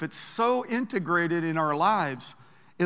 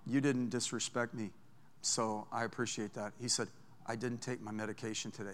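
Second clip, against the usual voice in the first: much softer, low, leaning in; quiet confession; 8 semitones lower, 12 dB quieter than usual. Retold or imitated. Passenger leaning down to the preacher, soft low confession. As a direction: say it low and close. Unhinged man leans down quietly.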